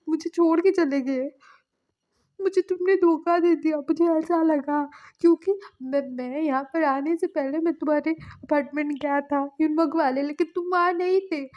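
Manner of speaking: crying complaint. Retold or imitated. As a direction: pour out the hurt through tears, acted. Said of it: "ऐसा बोल के ना जंगजंग रो रहा था". (रोते हुए शिकायत, ऊँची और तेज़ आवाज़ में)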